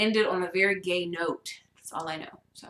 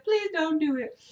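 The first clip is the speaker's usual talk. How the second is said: higher, unforced imitation of begging; retold pleading; 7 semitones higher than usual. Mom asking not to pee in sink, pleading. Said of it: "She looked at me. She was like".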